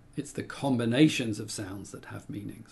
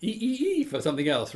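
animal call; 11 semitones higher, 3 dB louder than usual. Shown as a demonstration. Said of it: "it would be like".

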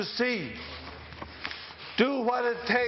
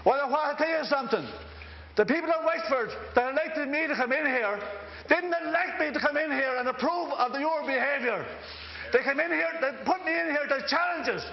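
impassioned speech; 4 semitones higher than usual. Real, not acted. Dáil speech building to a climax.

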